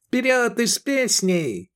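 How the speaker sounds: viel höher und langsam, schwungvoll; munter. A narrator's reading. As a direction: wie ein fröhlicher Anführer ausrufen. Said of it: "бодро сказал Эдик".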